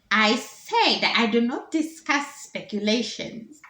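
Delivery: ancient minister. Acted. Minister repeats her refusal, slow emphatic elder voice. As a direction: spell out the refusal slowly. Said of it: "She says".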